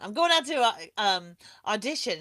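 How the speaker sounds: mock Irish accent, imitating an actress friend; Irish accent retry. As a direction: push the Irish lilt harder on "I'm going out to". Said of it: "I can't do her accent".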